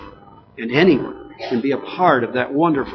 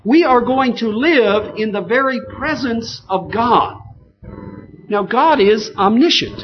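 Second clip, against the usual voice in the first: raised pitch, forceful sermon delivery; emphatic preaching; 7 semitones higher, 4 dB louder than usual. Real, not acted. Preacher telling the congregation God will live with man, emphatic preaching. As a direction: drive each phrase home to the congregation.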